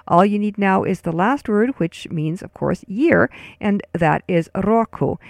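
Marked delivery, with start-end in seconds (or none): 4.5-5.2 "roku" with a trilled R, RO-ku; rolled R. Shown as a demonstration. Teacher introduces the last word, "roku" with rolled R. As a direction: roll the R of "roku", then end on oo. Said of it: "roll your R".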